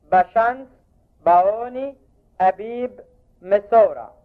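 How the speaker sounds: تاوت، باوبي، أتور each said clearly with a rise, as a teacher reads a list; old Bohairic pronunciation. Shown as a demonstration. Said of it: "نسجل أسماء الشهور القبطية باللفظ البحيري القديم". (اللفظ البحيري القديم لأسماء الشهور)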